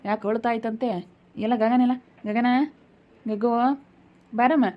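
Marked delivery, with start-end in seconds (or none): 1.4-4.7 calling out. Acted. Calling the girl over.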